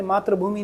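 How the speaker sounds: मातृभूमि with "tra" for "tri"; the mistaken "maatra" sound in मातृभूमि; wrong pronunciation. Shown as a demonstration. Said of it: "मातृभूमि नहीं है".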